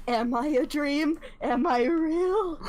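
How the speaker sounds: slow, drawn-out pondering; mock existential wonder. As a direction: muse slowly, hammed-up wonder. Player acts out character's existential musing.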